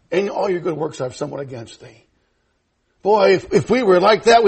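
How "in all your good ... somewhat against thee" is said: low, soft voice of God; voice of the Lord. Acted. Preacher voicing the Lord rebuking the church, low and soft. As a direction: speak as the Lord, lower and softer. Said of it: "But the Lord said this".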